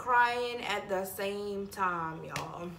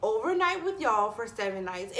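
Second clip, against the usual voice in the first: raised, louder no; reliving the refusal to the viewers, a higher louder no; firm refusal; 5 semitones higher, 3 dB louder than usual. Retold or imitated. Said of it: "I'm like".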